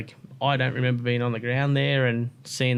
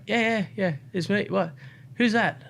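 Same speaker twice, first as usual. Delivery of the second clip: Luciano's voice; 8 semitones higher than usual. Retold or imitated. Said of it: "And then he's like".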